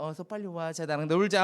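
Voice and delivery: soft seductive call. Acted. Potiphar's wife luring Joseph, soft and low. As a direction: lure him in hushed and low. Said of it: "하면서 그렇게 한 거예요".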